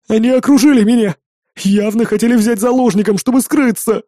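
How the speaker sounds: high, near tears and frantic; panicked friend almost in tears; nearly crying. A narrator's reading. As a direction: blurt it out, close to crying. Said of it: "Чуть ли не плача".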